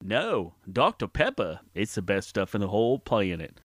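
Forrest Gump voice. Acted. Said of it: "Please welcome Forrest Gump".

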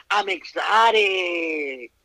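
slow, drawn-out mock boast; mocking exotic girl. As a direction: stretch it out, making fun of her. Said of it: "let me stop making fun of this person".

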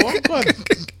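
high, shocked outburst; shocked exclamation. Retold or imitated. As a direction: act scandalised. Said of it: "I'm like".

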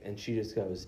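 ordinary talk, nothing marked

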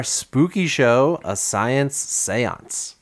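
slow, drawn-out spooky title. Acted. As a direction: draw it out eerily. Spooky show name.

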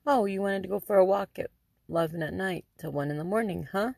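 retold sarcastic echo, quick pace; mocking disbelief. Mother retells confronting daughter after a late-night walk, mock-incredulous. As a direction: throw the excuse back, mildly scornful and fast.

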